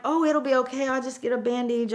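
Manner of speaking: high, placating voice; retold reassurance. Gail calming her panicked boss about the cuts, reassuring.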